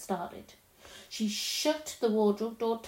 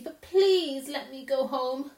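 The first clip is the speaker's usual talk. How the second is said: put-on pleading girl; 4 semitones higher, 4 dB louder than usual. A narrator's reading. Lucy asks to go home.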